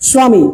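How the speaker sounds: স্বামী as "swa-mi", with a w glide; partly sounded ব. Shown as a demonstration. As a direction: let the ব in স্বামী sound lightly as w. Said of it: "এরকম বলে আর কি".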